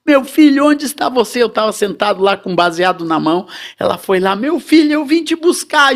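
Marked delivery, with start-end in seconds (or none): 0.0-1.4 mother crying for her son in the drug den; crying mother calling. Retold or imitated. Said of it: "chorando e disse". 4.3-6.0 high, pleading mother's cry. Retold or imitated. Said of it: "chorando e disse".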